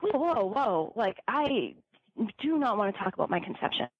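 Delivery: incredulous. Retold or imitated. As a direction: push back with mock alarm. Retelling her reaction to conception talk.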